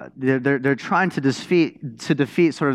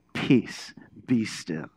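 calm command; 4 semitones lower, 5 dB quieter, slower than usual. Retold or imitated. Jesus calms the storm.

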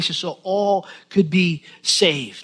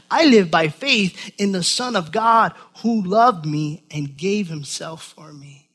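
slow, earnest reading of the verse; scripture reading. Acted. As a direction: savor each phrase for the congregation. Reads scripture in preaching voice.

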